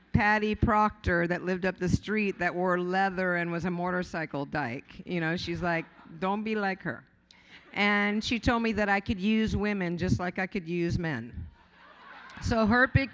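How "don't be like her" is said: put-on mom's Brazilian accent. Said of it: "she's got this heavy Brazilian accent".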